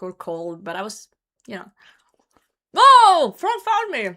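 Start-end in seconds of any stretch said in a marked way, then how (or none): 2.7-4.1 sudden high, loud surprise; surprised shout. Real, not acted. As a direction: yelp of delight at being found. Viewer finds her hiding spot.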